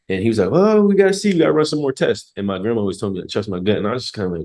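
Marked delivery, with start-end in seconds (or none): 0.5-2.3 lightly voiced doctor, higher and a bit louder; a hint of a cautious doctor stalling; retelling the doctor's hedge in a light higher voice; mock doctor voice. Mocking the doctor's reply.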